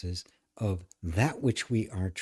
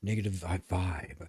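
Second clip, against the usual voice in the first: mock spiritual advice; faster than usual. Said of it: "spiritual practices and all sorts of".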